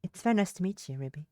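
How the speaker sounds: put-on lightly British-accented greeting; slight British accent. Kelly greeting the rescued girl, in a slight British accent. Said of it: "I keep giving Kelly an accent".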